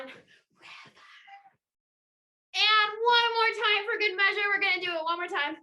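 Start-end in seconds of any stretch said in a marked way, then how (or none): 0.0-1.0 drawn-out whispered shout; whisper yell. Shown as a demonstration. Leading the Willy Wobble on the count, whisper yell. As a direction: stretch it into a voiceless yell. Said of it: "So you're gonna whisper yell".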